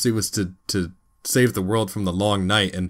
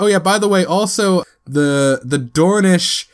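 offhand Tyrion; 3 semitones higher, slower than usual. Retold or imitated. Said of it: "Tyrion's like".

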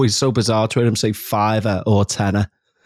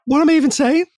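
much higher, incredulous squeak; baffled self-question; faster than usual. Acted. Speaker to self after repeating a word, baffled. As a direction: ask yourself in high-pitched bafflement.

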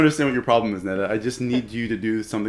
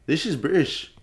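put-on British accent that slips into Irish; attempted British accent; 3 semitones higher than usual. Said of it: "That's, that's Irish".

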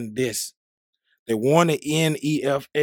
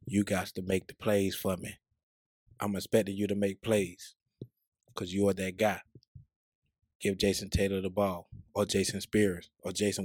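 low, soft seductive voice; sexy voice; 4 semitones lower, 4 dB quieter than usual. Acted. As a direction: keep it low and velvety. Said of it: "let me tell you right now in my sexy voice".

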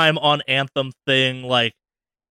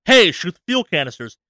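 mild mock yell, slightly higher and louder; imitated game yell; 4 semitones higher, 5 dB louder than usual. Game alerting the player to a weak point, mild mock yell. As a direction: call it out like a game prompt. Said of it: "the game will yell at you".

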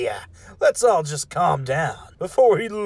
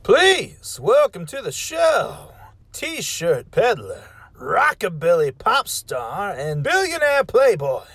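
announcer. Acted. Talk show host introduction.

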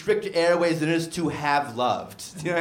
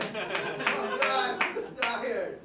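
weary sigh; 7 semitones higher, 6 dB quieter, much slower than usual. Acted. Drops hype, admits exhaustion.

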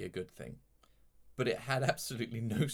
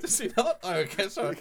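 surprised; 9 semitones higher, 6 dB louder than usual. Real, not acted. Caught out mid-impression.

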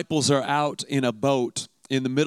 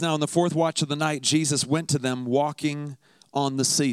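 measured, lowered reading voice; scripture reading. Acted. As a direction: read the Gospel steadily, like a lesson from the pulpit. Reads the Gospel passage aloud.

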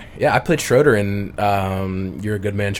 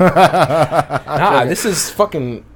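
mock proud shout; 2 semitones higher, slower than usual. Real, not acted. Proud boasting about shirt.

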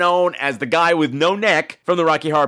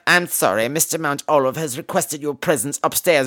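put-on formal nurse voice, a bit low; nurse's formal summons; 3 semitones lower than usual. Nurse calls Maggie upstairs, mock formal. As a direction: imitate a formal servant delivering a summons.

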